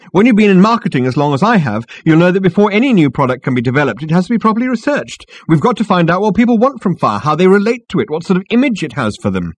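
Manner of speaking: high-pitched, emphatic lecture; strident girl. A narrator's reading. Marketing girl lectures Ford on research, stridently.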